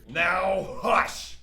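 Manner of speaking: shouting. Acted. Creature silences Santa.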